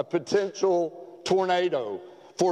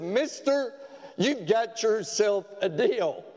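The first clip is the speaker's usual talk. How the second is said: put-on boy's voice; 4 semitones higher, slower than usual. Boy voiced in joke.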